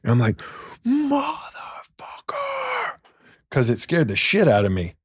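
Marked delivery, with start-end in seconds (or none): 0.8-3.0 sudden high startled cry; startled yell. Retold or imitated. Startled by a whisper, he blurts out a high cry. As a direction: blurt it out in fright. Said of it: "Did you yell?".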